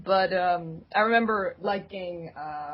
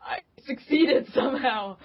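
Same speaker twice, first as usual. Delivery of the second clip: mock kid cheer; 6 semitones higher, 3 dB louder, slower than usual. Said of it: "And it's like".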